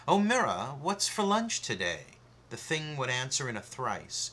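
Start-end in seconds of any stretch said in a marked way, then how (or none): 0.1-2.2 higher, louder mock question to a mirror; lightly sing-song query; asking the mirror. Someone asking a magic mirror for lunch, playfully. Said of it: "if you were to say".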